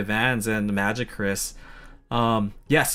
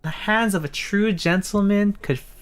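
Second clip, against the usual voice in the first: high, dreamy put-on girl voice; sweet smitten girl; 8 semitones higher than usual. Ashley writes about the gentleman's chicken, sweet high voice. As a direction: gush as if writing a love-struck diary.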